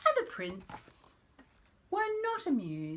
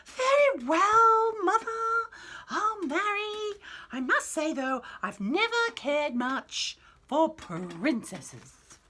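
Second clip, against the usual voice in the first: prince voice; 11 semitones higher, 6 dB louder, slower than usual. Acted.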